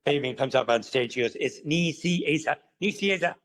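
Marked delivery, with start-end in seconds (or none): 1.4-3.4 high-pitched indignant correction of Niciesa; imitated exasperated correction. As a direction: correct your own name, mock exasperated. Acts out Fabian correcting the introducer.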